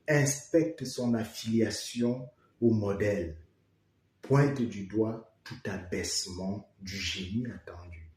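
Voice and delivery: declaimed verse, each phrase set apart; poem reading. Acted. Poet reads the stanza on critics, declaimed recitation. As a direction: recite the stanza line by line, firm openings and falling ends.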